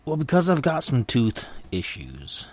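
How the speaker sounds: speaking through clenched teeth; talking through teeth. Real, not acted. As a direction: barely open jaw, through the teeth. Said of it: "my voice sounds a little strange, because I'm talking through my teeth".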